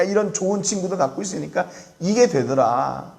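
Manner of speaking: imitated show-off, pitch climbing through the list; swaggering boast. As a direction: lightly act out someone bragging of what they have. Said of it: "의시되면서 그랬겠죠". (으스대며 자랑하는 흉내)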